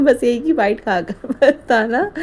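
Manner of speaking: drawn-out teasing instruction; slow playful warning. Retold or imitated. Wife teasing husband about tasting biryani, slow and playful. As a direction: stretch it out, half laughing. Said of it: "मैंने बोला था".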